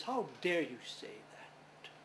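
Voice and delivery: a hissed, whispered scolding from mother; stern whisper. Acted. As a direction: whisper the rebuke, slowly and sternly. Mother scolds her son.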